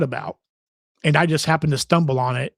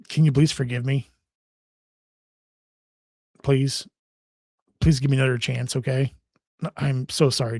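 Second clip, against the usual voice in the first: begging an ex back. Pretend. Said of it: "I can't keep a straight face".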